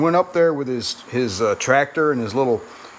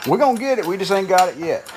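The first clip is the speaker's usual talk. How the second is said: lightly voiced catchphrase, pitched up high; Rat Rod Bob; 6 semitones higher, faster than usual. Fan quoting a rat rod builder's saying, lightly imitated in a higher pitch. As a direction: quote it higher, as a hint of an impression. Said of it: "what does he say?".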